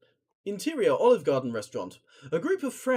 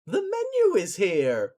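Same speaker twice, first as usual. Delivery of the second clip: guest voice; 4 semitones higher, 6 dB louder, slower than usual. Acted. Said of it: "I'll do all the guests".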